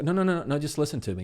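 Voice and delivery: high, loud exasperated protest. Retold or imitated. A friend fed up with being fixed, exasperated. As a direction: cut him off, fed up. Voicing the frustrated complainer.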